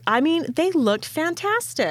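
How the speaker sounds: unvoiced amazed whisper. Real, not acted. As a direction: hush it like a secret.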